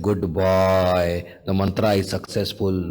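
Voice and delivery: low, pleased guru's reassurance; smiling approval. Retold or imitated. Guru reassures his worried disciple, smiling approval. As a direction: approve with a smile, pitched low. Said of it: "Ishwar Puri smiled".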